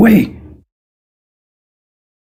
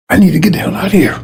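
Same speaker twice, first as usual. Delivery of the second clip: panicked exit; faster than usual. Acted. Driver seeing a dead end sign.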